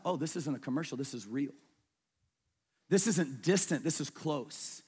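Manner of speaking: sincere, stunned and soft; hushed realization. Retold or imitated. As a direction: let the truth land quietly. Retelling his realization in Guatemala.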